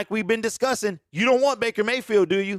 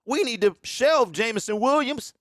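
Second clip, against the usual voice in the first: worried Lions fan; 3 semitones higher than usual. Retold or imitated. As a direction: play a nervous fan who wants to protect him. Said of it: "let me do my best impersonation of Detroit Lions fans".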